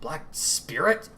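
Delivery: slow, questioning repeat, Spirit rising; puzzled repeat. Acted. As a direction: turn the name over in disbelief. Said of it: "Mako repeated".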